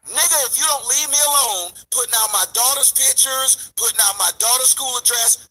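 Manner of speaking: a hint of her furious threat, mocked; mocking woman voice. Vlogger mocking the woman threatening police, lightly voiced. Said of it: "And she says".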